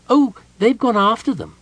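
high kender voice, offhand; casual kender. A narrator's reading. Kender tells Palin of the chase, high and casual. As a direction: toss it off like nothing. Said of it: "Tass said casually".

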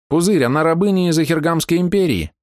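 high, bright fairy voice; pixie. Acted. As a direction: voice her as a tiny fairy. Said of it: "подала голос фея".

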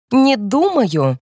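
slow, drawn-out, stiff refusal; shrill brittle cut-in. A narrator's reading. Wife cuts in on her father-in-law, slow and stiff. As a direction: drag each word out like a cold wall. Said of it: "пронзительный и ломкий".

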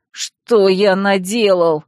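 slow, tearful self-reproach; whiny. Acted. Fox mage lamenting that he hurt his friend, slow tearful whine. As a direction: moan it slowly like near tears. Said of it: "плаксиво шептал он".

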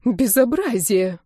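slow, outraged exclamation; drawn out in indignation; indignant. Acted. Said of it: "возмутилась Августа".

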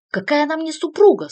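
very loud, high outraged yell; shout. A narrator's reading. Artyu yelling at the cardinal, outraged. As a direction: explode at the word wife. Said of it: "снова закричал Артью".

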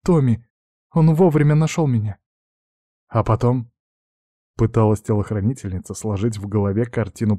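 put-on a frightened girl recounting the attack; tearful young heiress. Girl continues her account. (испуганная девушка, голос выше, со всхлипами)

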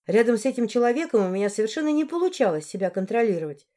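normal talking voice

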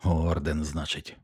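mumbled. A narrator's reading. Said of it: "промимрив він".

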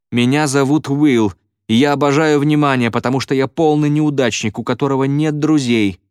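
high, forced declaration; shouted out. A narrator's reading. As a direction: cry it out for everyone to hear. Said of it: "выкрикнул Уилл".

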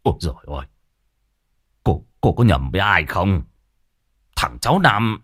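a hint of a fussy old man who won't believe it; disbelieving old man. Old Cẩm refuses to believe Mai, lightly voiced old man.

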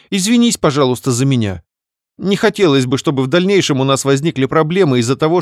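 high sheepish sister voice; guiltily mumbled. Acted. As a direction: sound guilty, wheedling. Sister explains. (виновато, высоким голосом)

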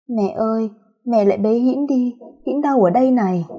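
put-on a touch of a clingy child ghost; whining ghost child. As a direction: whimper for mother like a hurt child. Hồn ma làm nũng đòi bế. (giọng ma trẻ con nũng nịu)

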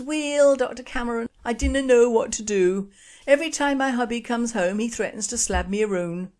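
put-on high Glasgow accent, worried wife; a worried Glasgow woman. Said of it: "Glasgow accent is not good".

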